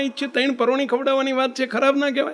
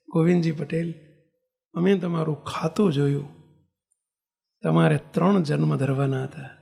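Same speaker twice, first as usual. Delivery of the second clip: calm lowered voice; gentle guru; 4 semitones lower than usual. Retold or imitated. Lord's gentle explanation.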